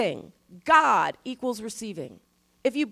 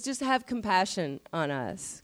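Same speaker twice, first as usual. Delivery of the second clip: sweet plea; 4 semitones lower, 4 dB quieter than usual. Retold or imitated. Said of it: "But it's sweet".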